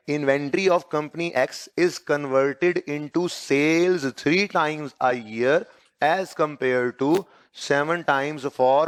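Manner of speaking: very slow, measured dictation voice. Acted. Teacher giving students a model answer, very slow dictation. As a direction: dictate it phrase by phrase, drawn out.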